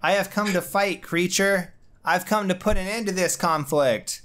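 a hint of a grand villain declaring battle; monster voice. S0 voicing the water monster.

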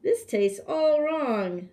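hammed-up grumpy king rejecting food; fussy king complaining. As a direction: whine like a spoiled king. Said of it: "said the hungry king".

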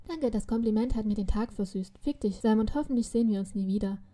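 sweetly sarcastic. Acted. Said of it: "lächelte ich freundlich".

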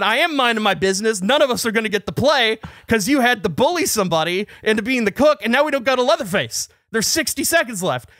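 indignant, building rant played back for friends; retold arguing back. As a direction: re-enact an exasperated argument. Acted quarrel, arguing back.

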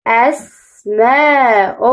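أسماء read slowly, syllable by syllable; sounding out. Shown as a demonstration. Teacher blends the word slowly for the class. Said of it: "رددوا".

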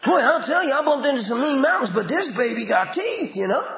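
a hint of a folksy boaster; mock bragging. Believer boasting of mean mountains, mild mock brag. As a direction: lightly mimic the scar-bearer. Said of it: "That's how we talk".

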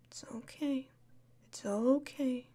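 soft unvoiced it's okay; whispered reassurance. Whispering comfort to a crying friend. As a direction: breathe it to calm them.

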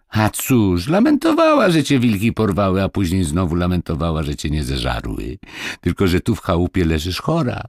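animated lad, pitch jumping up; lightly voiced boy retelling a fuss; gossipy village boy. Boy reports the mistress's laments to Marysia, animatedly.

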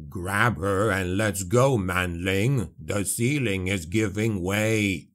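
low, slow dwarf's snarl; low slow warning snarl as the roof gives way. Acted. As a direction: growl it out like a gruff old dwarf. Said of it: "Gotrek snarled".

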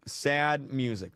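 drawn-out and mournful; slow it right down. Shown as a demonstration. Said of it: "All right, sad music".

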